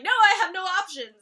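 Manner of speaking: loud, whining mock of Kevin; mock whine. Vlogger mimicking Kevin's complaint, loud whine. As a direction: whine it dramatically. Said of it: "Kevin's like".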